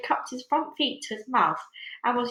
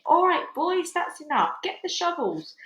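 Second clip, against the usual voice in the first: higher, calling out to the crew; shouting cloud man; 9 semitones higher than usual. A narrator's reading. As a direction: bellow the order across the cloud. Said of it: "heard him shouting".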